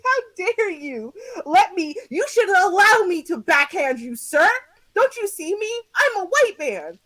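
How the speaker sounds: hammed-up privileged outrage; mock entitled man. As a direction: sneer it as the entitled passenger. Mocking the passenger's entitlement.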